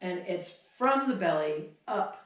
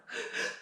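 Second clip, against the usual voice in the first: two breaths in, one soft sigh out; shuddering breath; 7 dB quieter than usual. Shown as a demonstration. Trainer demonstrates emotional release breath, shuddering sigh. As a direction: double inhale, then release it. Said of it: "shuddering breath is two in, one out".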